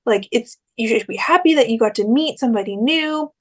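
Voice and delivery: retold reassurance, lifted high at the start; trying to comfort. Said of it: "Kyle tries to be nice".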